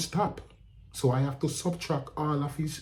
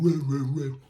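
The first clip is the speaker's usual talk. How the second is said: loud exclaiming; 4 semitones higher, 4 dB louder than usual. Retold or imitated. Retelling the angry outburst.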